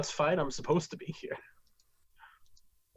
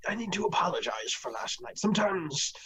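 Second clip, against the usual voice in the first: half-whispered, lightly voiced old scholar; a hint of a breathy old man. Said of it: "I need to use my old man voice for this".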